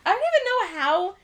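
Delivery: laughing, disbelieving question. Real, not acted. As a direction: laugh while asking. Laughing at herself.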